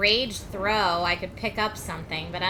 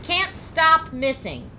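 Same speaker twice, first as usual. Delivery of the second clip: exasperated; 6 semitones higher, slower than usual. Real, not acted. Attacks keep missing in game.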